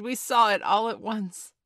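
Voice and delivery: excited cry of agreement; all crying out. A narrator's reading. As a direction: chime in loudly, pitch lifted. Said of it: "they all cried".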